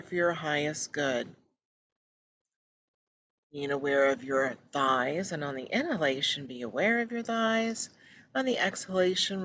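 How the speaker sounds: unhurried, gentle meditation guide; guided meditation. Real, not acted. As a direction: guide listeners into relaxation, pausing between phrases.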